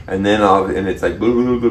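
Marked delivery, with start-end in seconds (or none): 1.2-1.7 blah blah blah as bubbling; bubbling noise. Retold or imitated. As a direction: mimic bubbling water with blah blah blah. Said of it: "making these bubbling sound".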